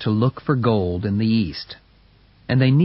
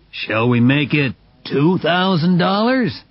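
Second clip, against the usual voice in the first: smug challenge; 5 semitones higher, 3 dB louder than usual. Acted. Matthewson raises the bet.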